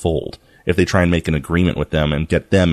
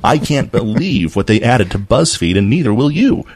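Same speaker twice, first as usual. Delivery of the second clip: clickbait video narrator; 4 semitones higher than usual. Pretend. Mocking clickbait headlines.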